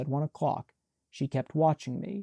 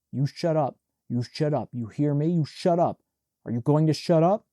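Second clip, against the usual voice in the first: rising angry shout; 5 dB louder than usual. Acted. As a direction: yell her into silence. Brother yelling at sister at night.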